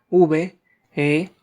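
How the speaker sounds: slow, letter-by-letter spelling; teacher spelling out a word, slow and clear. Shown as a demonstration. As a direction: spell V E S T I R S E one letter at a time. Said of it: "Cómo se deletrea vestirse".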